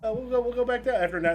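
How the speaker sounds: a cheerful talking elevator. Acted. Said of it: "he goes".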